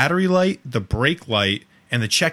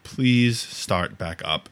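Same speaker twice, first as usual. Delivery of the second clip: retold plea; much slower than usual. Pleading with stalled car.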